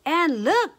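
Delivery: high, loud middle-sized bear cry; lightly voiced mama bear, crying out; Mama Honey Bear. A narrator's reading. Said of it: "cried Mama Honey Bear in her middle-sized bear voice".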